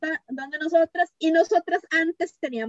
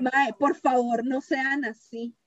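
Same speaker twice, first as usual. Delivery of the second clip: slow, deliberate appeal; earnest plea; 2 semitones lower, slower than usual. Real, not acted. Host appealing to listeners about harassment, slow earnest plea. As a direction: plead slowly, spacing out the words.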